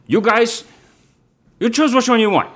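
high, eager hustler voice; squirrel dealer. Acted. Tracksuit dealer greeting the unicorn in a high hustler voice. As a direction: greet him like a sleazy pal. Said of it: "He goes".

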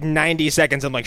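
ordinary talk

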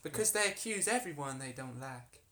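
put-on harlot character in an American accent. Harlot answering why she is accused, put-on American accent. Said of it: "This is very American".

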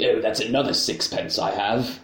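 a hint of a miserly old man; lightly voiced old miser; Scrooge voice.

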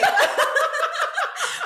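squealing laugh; high burst of laughter. Real, not acted. Recalling the horn gesture, high squealing laugh.

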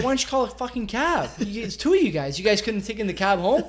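loud, high, exasperated outburst; exasperated yelling. Retold or imitated. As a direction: blow up at her in disbelief. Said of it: "I said".

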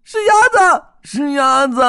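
very high, loud joyful shriek; excited screaming. Acted. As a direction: shriek with joy at the lit window. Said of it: "他们一边尖叫".

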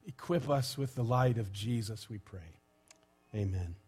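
measured spoken prayer with long pauses. Real, not acted. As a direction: lead the congregation in prayer, phrase by phrase. Leads a prayer.

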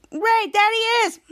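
high-pitched acted alert; urgent sighting. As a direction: call out as if spotting him. Retold character spots the fugitive.

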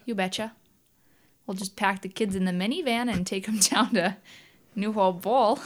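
a gentle Minnesota mom voice; Midwestern accent. Shown as a demonstration. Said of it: "Can you do a Midwestern accent?".

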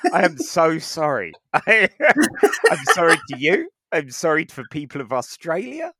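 loud, high, giggling through the sorry; laughing apology. Real, not acted. Apologising to Australians for his accent, laughing loudly. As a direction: apologise while cracking up.

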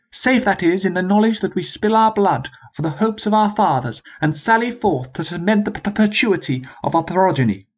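a high, formal commanding officer; rally the troops like an old sergeant; sergeant's voice. Acted. Sergeant continues the appeal.

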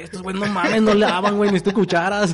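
high, loud rat voice; squeaky cartoon rat complaining; Splinter the rat. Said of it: "Se me hace que era el Splinter".

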